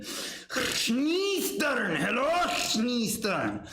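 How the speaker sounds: lightly voiced Tim Allen; a hint of Tim Allen; Tim Allen impression. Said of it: "I tried to do the old Tim Allen".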